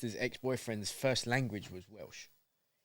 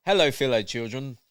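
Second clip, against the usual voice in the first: undercover cop; 6 dB louder than usual. Pretend. Mocking undercover cop at school.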